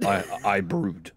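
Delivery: slow, mock-brooding hero voice; brooding Leon. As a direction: drag it out like a moody hero. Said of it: "that joke will still be funny".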